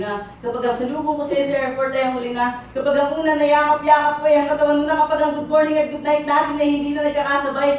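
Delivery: building to a high, loud climax; impassioned vow. Acted. Poet urges faraway lover to hold on, impassioned. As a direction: pile up promises, rising into near-shouting. Rousing climax of love poem.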